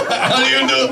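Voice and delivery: imitated Japanese accent, amused; mock Japanese accent. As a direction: slip into the doctor's Japanese accent. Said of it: "this is his voice".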